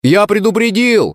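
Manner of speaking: frowning. Acted. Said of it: "нахмурился я".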